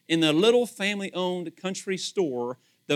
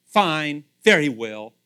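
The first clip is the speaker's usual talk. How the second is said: grudging; 3 semitones lower, 5 dB louder, slower than usual. Shown as a demonstration. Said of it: "how about sarcastically".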